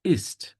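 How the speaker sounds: "Ist" high, with a crisp released t; final consonant sounded. Shown as a demonstration. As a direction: finish "Ist" on a clear, separate T. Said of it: "There is this T sound".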